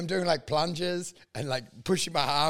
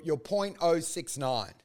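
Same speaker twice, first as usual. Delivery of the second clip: slow official readout; 2 semitones lower, 5 dB quieter, slower than usual. Retold or imitated. Friend retelling the cop reading his breath result. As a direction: point oh six nine said slowly and quietly. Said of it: "they said".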